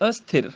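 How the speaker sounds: ਅਸਥਿਰ with short a before sth; initial short a. Shown as a demonstration. Teacher explaining the added letter, ਅਸਥਿਰ starting with a. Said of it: "ਸਥਿਰ ਤੇ ਅੱਗੇ ਐੜਾ ਲੱਗ ਗਿਆ".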